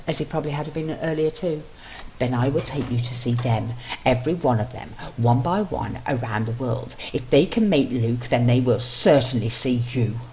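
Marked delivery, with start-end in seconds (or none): 2.2-10.2 fierce. Acted. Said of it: "he said the latter fiercely".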